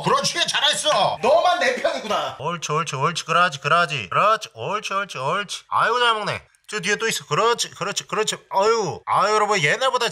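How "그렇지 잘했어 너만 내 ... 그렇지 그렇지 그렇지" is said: coaxing praise for a pet; squeaky praising a dog. Real, not acted.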